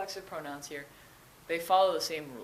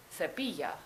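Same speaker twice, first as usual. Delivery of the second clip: "cepilla" stressed on the middle syllable, ce-PI-lla. Shown as a demonstration. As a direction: lean on the I of "cepilla". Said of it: "keep that emphasis on the I".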